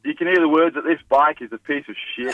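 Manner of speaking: a light put-on Australian accent, pretending to be Steve; a caller faking a mild Australian accent; Aussie accent. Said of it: "How's my Australian accent?".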